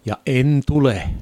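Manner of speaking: a firm, defiant no, pushed out with inner force; inner roar of refusal. Retold or imitated. Refusing the preacher's call in his heart, firm and defiant. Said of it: "minä sydämessäni karjuin".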